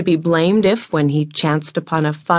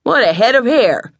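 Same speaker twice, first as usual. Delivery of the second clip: a touch of astonished admiration, rising louder; traveling salesman startled into an exclamation; exclaiming; 3 dB louder, slower than usual. A narrator's reading. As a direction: blurt it out, struck by her hair. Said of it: "he exclaimed".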